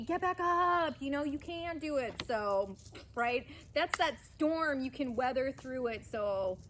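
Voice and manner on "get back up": Rocky-style cheer. Acted. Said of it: "like Rocky".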